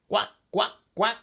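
loud, high, short quacks; imitated duck calls; mother duck quacking. A narrator's reading. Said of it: "said the mother".

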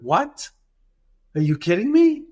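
retold disbelief, pitch climbing on the question; incredulous. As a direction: act out a taken-aback doctor. Doctor told he may be fired.

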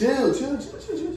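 excited high yelling. Real, not acted. Friends bickering over wings.

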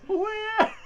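very high, loud quacking duck voice; Donald Duck voice. Pretend. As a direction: squawk like a cartoon duck. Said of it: "my Donald Duck voice".

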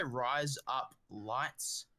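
slow "rise up lights"; three slow words, "rise up lights", rising; Australian-sounding wordplay. Shown as a demonstration. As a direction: say "rise up lights" to pass as Australian "razor blades". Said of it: "sounds like an Australian".

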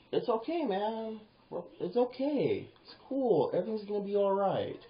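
high-pitched, easygoing reassurance; lightly sung-out comforting tone; soothing reassurance. Acted. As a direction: gently talk someone down. Acts soothing alternative to relax.

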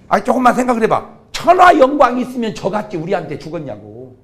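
ordinary talk

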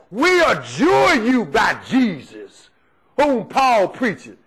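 slow, drawn-out shouted adjuration; mock exorcist shouting the adjuration; emphatic shout. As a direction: proclaim it slowly like a command to a demon. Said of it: "These brothers was emphatic".

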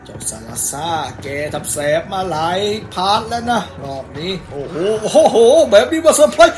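loud, laughing shock at the ambush; startled laugh with a yelp; surprised laughing. Real, not acted.

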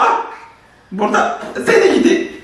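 high, giggly teasing; laughing at the toy. Real, not acted.

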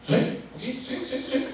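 guilty giggle while admitting it; embarrassed chuckling yes; sheepish laughing. Retold or imitated. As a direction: laugh it off, caught red-handed.

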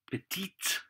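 petite lifted high to flag a female speaker; high-pitched petite. Shown as a demonstration. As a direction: rise on petite for a girl. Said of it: "someone female speaking".

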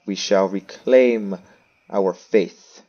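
slow, measured, declaiming; mock-grand proclamation. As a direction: proclaim it slowly and firmly, with weighty pauses. Mock-grand proclamation of game plan.

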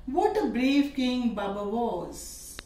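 slow, admiring exclamation; exclamatory. Shown as a demonstration. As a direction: marvel at the brave king. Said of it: "Now exclamatory into assertive".

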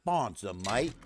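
amateur Australian slang; attempted Australian accent. Shown as a demonstration. Streamer trying slang after harsh ratings, attempted Australian accent. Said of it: "I sounded like a real Australian".

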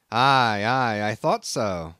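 crusty Nantucket captain sizing up a greenhorn; gruff old sea captain. Acted. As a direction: bristle at the stranger like a crusty old skipper. Captain answers knowingly.

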